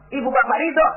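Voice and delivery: "ridho" held high, left hanging. Real, not acted. Preacher sets up parents' approval for congregation, pitched high and suspended. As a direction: lift "Ibu bapa ridho" high, awaiting the answer. Raised setup, lowered answer.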